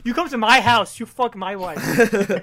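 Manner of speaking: loud, indignant put-on husband; mock outrage. Accusing the man who came into his house, mock outrage. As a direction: play the wronged husband, loudly.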